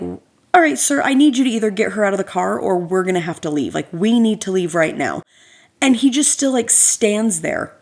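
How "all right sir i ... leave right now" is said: firm but polite. Retold or imitated. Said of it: "but kind of like".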